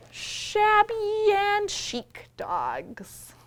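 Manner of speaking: slow storybook whisper. Acted. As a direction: whisper it like a secret. Reading book, whispered line.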